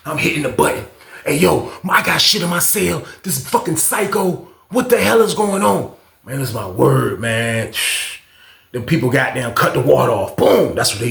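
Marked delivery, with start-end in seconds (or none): 1.3-5.9 raised, higher plea to the guards; calling out. Retold or imitated. Pressing the intercom, calling the guards, upset. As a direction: call for help, fed up.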